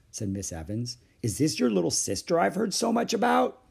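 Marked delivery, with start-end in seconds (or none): 1.2-3.6 put-on high, sweet question to a child; lilting grown-up-to-child voice; kindly librarian. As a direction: ask with friendly interest. Librarian asks child about sister.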